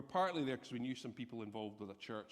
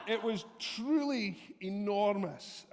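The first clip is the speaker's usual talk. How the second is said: higher, laughing and slow; laughing disbelief; 7 semitones higher, 7 dB louder, slower than usual. Real, not acted. Telling the church about the giant dog, laughing and slow. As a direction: laugh through the memory of the dog.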